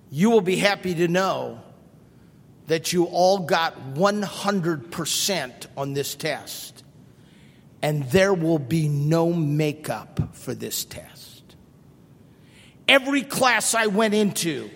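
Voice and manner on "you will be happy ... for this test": teacher's verdict. Retold or imitated. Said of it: "And she says".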